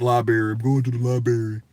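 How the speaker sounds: library said as "lie-berry"; mispronounced library. Retold or imitated. Quoting people he hears say it wrong, library as "lie-berry". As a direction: imitate people saying library without its first r, "lie-berry". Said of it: "you hear motherfuckers say that".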